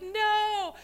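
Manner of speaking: high, loud mock protest; wailed refusal. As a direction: cry out the refusal, imitating the daughters-in-law. Daughters-in-law refuse to leave.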